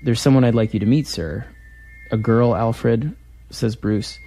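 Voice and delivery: lightly voiced comic scene read aloud; dramatic reading. Writer reading his Batman scene to the interviewer, lightly dramatic.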